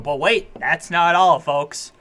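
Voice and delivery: a hint of a pitchman; lightly voiced TV salesman reveal; infomercial voice. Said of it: "like, infomercial".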